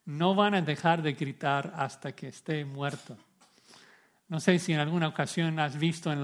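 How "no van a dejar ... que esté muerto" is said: ordinary talk, nothing marked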